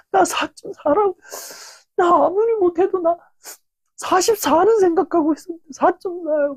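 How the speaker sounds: high, tearful student begging over a failed score; tearful pleading. Retold or imitated. Student crying to the teacher over a score, high and tearful. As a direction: re-enact sobbing high and plaintive. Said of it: "저도 모르게 막 눈물이 막 흘리더라고요".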